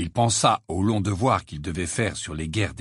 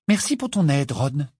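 acerbic; 3 semitones higher than usual. Acted. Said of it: "d'un ton acerbe".

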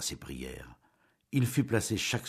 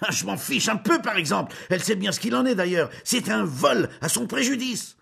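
much higher, louder exasperated shout; exasperated tirade; 7 dB louder than usual. Acted. Julien ranting about the stolen money, exasperated. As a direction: stamp and rant, out of patience. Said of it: "il trépignait d'exaspération".

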